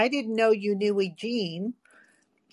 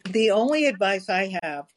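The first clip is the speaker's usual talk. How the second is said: talking while chewing; words round a bite of babka; mouth full; 2 semitones lower, 4 dB louder than usual. Real, not acted. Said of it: "What are you eating?".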